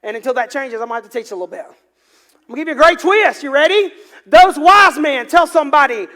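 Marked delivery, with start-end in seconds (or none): 4.2-5.3 slow, emphatic. Acted. Preacher stretching the key phrase.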